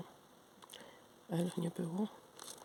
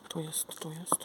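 whispering; 3 dB quieter, slower than usual. Real, not acted. Excited whisper finding a letter.

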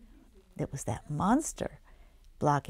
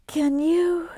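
high wondering; 12 semitones higher, 10 dB louder than usual. Acted.

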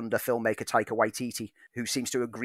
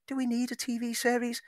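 skeptical question; 12 semitones higher than usual. Retold or imitated. Quoting skeptical reaction.

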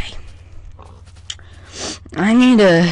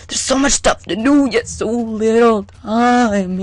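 mock dramatic; 3 semitones higher than usual. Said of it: "said this earlier".

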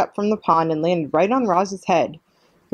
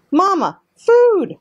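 put-on very high, loud baby-bird cry; slow, squealed hatchling demand; gosling voice; 6 dB louder, much slower than usual. A narrator's reading. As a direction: draw it out like a hungry chick. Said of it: "said the gosling".

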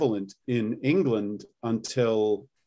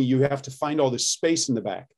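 Cockney demo. Shown as a demonstration. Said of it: "when you're doing Cockney".

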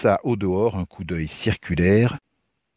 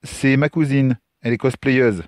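improvised excuse; 6 semitones higher than usual. Acted. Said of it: "improvisa Lucas qui n'avait rien trouvé de mieux".

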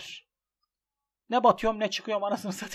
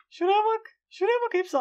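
high, loud wail pointing at the odds; wailing disbelief; 12 semitones higher, 5 dB louder than usual. Real, not acted. Gambler wailing to viewers over the losing odds. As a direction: cry out at the screen in disbelief.

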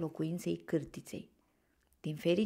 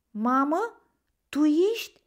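high, loud questioning cry; hopeful call; 9 semitones higher, 7 dB louder than usual. A narrator's reading. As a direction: call out for mother, rising with hope. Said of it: "strigă el plin de speranță". (strigăt plin de speranță)

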